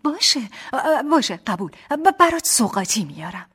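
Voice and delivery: amused, loud and high promise; laughing agreement. A narrator's reading. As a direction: give in with a laugh in the voice. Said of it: "خندیدم و گفتم". (با خنده و هیجان)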